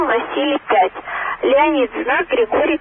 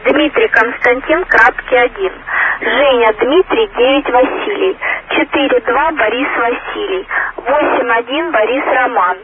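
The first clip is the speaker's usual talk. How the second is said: loud, clear radio dictation; 6 dB louder than usual. Acted. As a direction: call it out over the radio.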